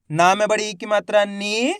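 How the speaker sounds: spelling out, with "नी" held long; drawn-out long vowel. Shown as a demonstration. Teacher having learners say it along, "नी" drawn out. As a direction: stretch the ee in "नी" at the end. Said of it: "देखो किस तरीके से".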